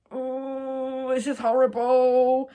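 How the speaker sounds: high, drawn-out mock wail; acted disgust. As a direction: whine it out in horror. Voicing her disgust at being spat on.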